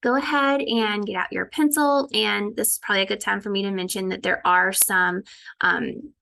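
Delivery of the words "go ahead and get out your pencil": teacher voice to class. Shown as a demonstration. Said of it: "So I might say".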